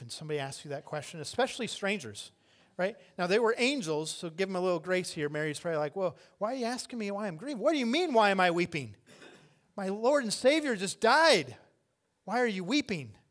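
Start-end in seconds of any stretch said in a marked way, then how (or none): 6.0-13.2 high, loud, exasperated retort; indignant disbelief. Acted. Grieving woman answers strangers asking why she weeps, indignant. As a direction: throw the question back, affronted. Acts Mary's indignant reply to angels.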